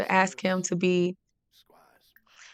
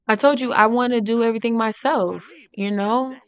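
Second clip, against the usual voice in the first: mild raised voice; 4 semitones higher, 4 dB louder than usual. Acted. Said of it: "really getting amped up".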